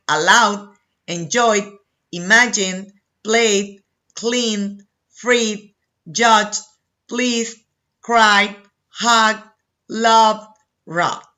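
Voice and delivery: ALLOWED through ROBBED, each closing on D without an extra syllable; word-by-word model list, a short D ending on ALLOWED, ENJOYED and the rest to ROBBED. Shown as a demonstration. Teacher modelling voiced sound verbs, ALLOWED to ROBBED each ending in just D. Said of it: "the pronunciation of E D is D".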